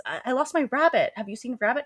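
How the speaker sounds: high-pitched little questioning voice; timid imitation. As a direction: mimic a meek, lost girl. Voicing timid Samantha approaching stranger.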